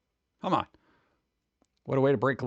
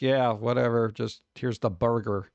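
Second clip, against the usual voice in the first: dismissive shrug; 7 semitones lower than usual. Retold or imitated. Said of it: "they're just like".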